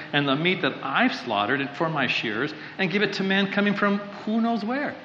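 mild scorn, pitch lifted on the opening questions; scornful reply. Acted. Preacher voicing Nabal answering David's men, scornful.

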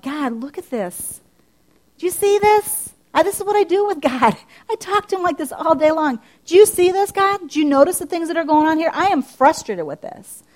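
loud, high, exasperated complaining to God; frustrated talk to God. Shown as a demonstration. Woman showing how she talks to God, frustrated and loud. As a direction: vent at God like a fed-up friend. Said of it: "That's how I talk".

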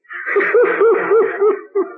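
a real high laugh breaking out; big laugh. Real, not acted. Speaker laughs at own joke.

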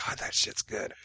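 real whisper, voiceless; whispered aside. Real, not acted. Hungover host whispering fondly about cherry vodka. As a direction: breathe it out as a secret aside.

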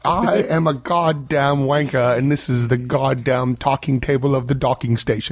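put-on British accent. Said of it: "how to do this accent".

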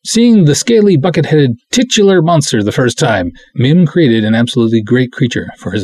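gleeful reread of the monster bit; excited reread. Acted. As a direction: savor the monster line with delight. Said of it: "I like both".

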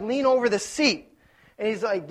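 ordinary talk, nothing marked

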